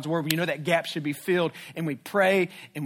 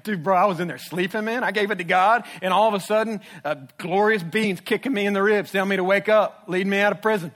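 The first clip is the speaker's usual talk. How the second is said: laid-back Peter; 4 semitones higher, 5 dB louder than usual. Retold or imitated. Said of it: "Peter's a character, too. He's like".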